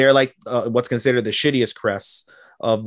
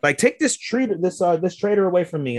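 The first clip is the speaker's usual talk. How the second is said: outraged king; 9 semitones higher than usual. Retold or imitated. King orders guards to seize the defiant headmaster, outraged. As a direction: play the offended king, voice shooting up.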